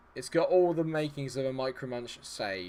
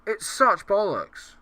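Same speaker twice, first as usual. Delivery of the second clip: frustrated; 8 semitones higher, 8 dB louder, slower than usual. Real, not acted. Frustration at game.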